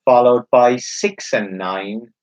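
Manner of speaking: slow, drawn-out bingo call; bingo caller. Acted. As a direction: stretch the numbers like a caller. Number called slowly.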